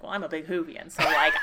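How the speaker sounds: retold quote broken by laughter; laughing while imitating an eager fan. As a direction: let the words spill out through a laugh.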